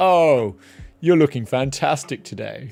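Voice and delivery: loud, put-on, posh, cultivated upper-class accent. Talking about cultivated accents, the speaker demonstrates one: cultivated accent. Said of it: "Is my accent cultivated enough for you?".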